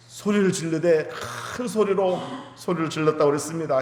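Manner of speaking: ordinary talk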